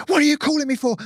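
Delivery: high, squeaky shocked voice; a stunned man who never expected this call; shocked disbelief. Retold or imitated. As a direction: caught off guard, voice shooting up high.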